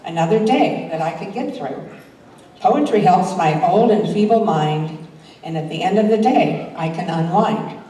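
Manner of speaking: measured, rhythmic poem recital; reading a light rhyming poem aloud. Acted. Reads her own poem.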